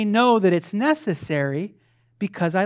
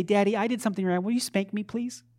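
lightly voiced pleading kid; a hint of a meek child begging; mock child; 5 semitones higher than usual. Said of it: "My kids don't come up to me and say".

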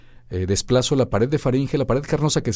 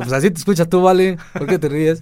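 put-on Michoacán accent; 8 semitones higher, 6 dB louder than usual.

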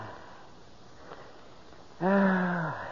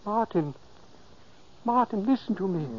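soft call; 3 semitones higher, 6 dB quieter than usual. Acted. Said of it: "I spoke softly".

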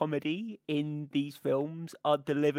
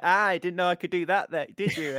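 surprised excitement; 4 semitones higher, 5 dB louder, faster than usual. Retold or imitated. Quoting Chris Tucker after disarming.

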